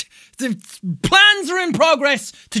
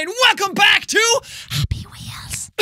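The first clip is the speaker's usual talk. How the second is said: stretched, slower show intro yell; 4 dB quieter than usual. Acted. A YouTuber yelling the intro at his fans. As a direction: draw the show name out as you yell.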